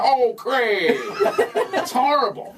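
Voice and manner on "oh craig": imitated catchphrase. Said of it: "I have people that come up to me".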